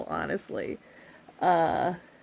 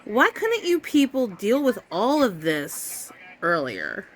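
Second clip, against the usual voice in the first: exasperated; 3 semitones higher, slower than usual. Retold or imitated. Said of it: "And I'm just like".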